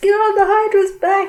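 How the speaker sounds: loud, high-pitched nagging.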